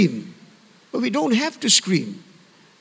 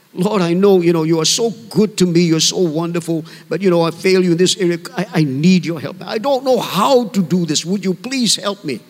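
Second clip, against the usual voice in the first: conversational, slightly lowered plea to God; friendly prayer; 3 semitones lower than usual. Acted. Believer asking the Lord for help, gently conversational. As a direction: pray as if chatting to a good friend. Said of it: "I talk to Him as my good friend".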